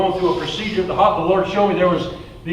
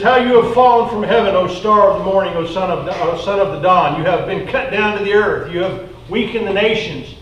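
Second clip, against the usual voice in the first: scripture reading. Acted. Reads Isaiah aloud.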